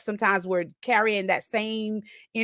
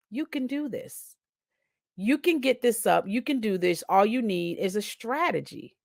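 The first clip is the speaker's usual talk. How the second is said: calm inner voice; 4 dB quieter than usual. Retold or imitated. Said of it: "a calm just came over me".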